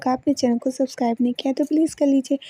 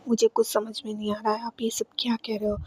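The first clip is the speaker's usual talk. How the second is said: hushed confused whisper; 6 dB quieter than usual. Retold or imitated. Shweta confused, frightened by Saket.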